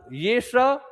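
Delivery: स said as retroflex "sh"; retroflex sibilant. Shown as a demonstration. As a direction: curl the tongue up and back for स. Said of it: "जीभ को मूर्ध".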